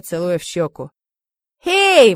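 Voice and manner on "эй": sharp, high, loud indignant "Эй!"; indignant cry. A narrator's reading. Zina to her mother taking sides against her, indignant loud cry. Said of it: "возмутилась".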